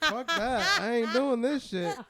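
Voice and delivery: shouting, high and slow; loud refusal. Retold or imitated. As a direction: yell it, refusing outright. Retold refusal on the ladder.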